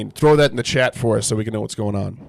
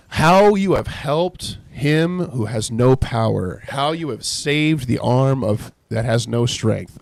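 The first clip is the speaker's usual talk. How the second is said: sarcastic reading; 3 semitones higher, 5 dB louder, much slower than usual. Acted. Reading Job's sarcastic reply aloud.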